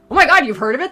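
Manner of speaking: high and loud; thrilled someone knows her work. Retold or imitated. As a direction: gush.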